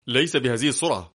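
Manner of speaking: mild, narrated exasperation; exasperated outcry. A narrator's reading. Passenger objects to the speeding driver, mildly exasperated. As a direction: protest with a touch of annoyance. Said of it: "فيهتف في حنق".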